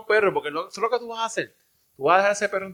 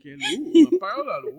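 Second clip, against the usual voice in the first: incredulous high-pitched question; asked in laughing disbelief; sorprendido; 10 semitones higher than usual. Real, not acted. Incredulous at unpaid power bill. (incrédulo, entre risas)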